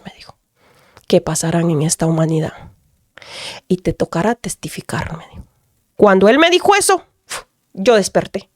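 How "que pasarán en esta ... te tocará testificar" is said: softer, faster murmured prophecy; hushed voice of God. Retold or imitated. God tells her in a dream, hushed. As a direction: murmur it low like a revelation.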